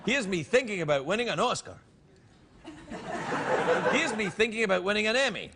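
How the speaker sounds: musing around a pipe; talking with a pipe in mouth. Real, not acted. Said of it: "every time I put this pipe in my mouth".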